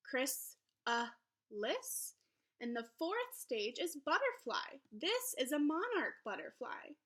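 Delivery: lively, sing-song picture book read-aloud; reading to children. Acted. Teacher reading a butterfly book to her class, lively storybook voice. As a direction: read it brightly to young listeners.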